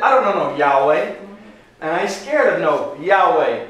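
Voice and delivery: lightly voiced Pharaoh, mock swagger; defiant Pharaoh. Teacher playing Pharaoh for the class, mildly defiant. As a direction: toss off "I ain't scared of no Yahweh" with a hint of a cocky king. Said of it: "That's what he said".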